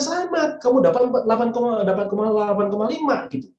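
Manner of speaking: a high, bright "Selamat" that settles back down; retold upbeat praise to a son; cheerful congratulation. Father congratulating crying son.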